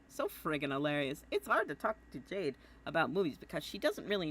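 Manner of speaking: a hint of an eager, friendly boy; Jake voice. Jake's letter read to John, lightly voiced Jake. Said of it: "I keep doing my Jake voice".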